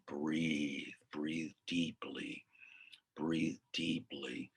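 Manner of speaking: slow, measured breathing instruction; calming coach. Retold or imitated. Coach talks jailed client down, calming and slow. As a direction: draw it out to settle a panicking caller.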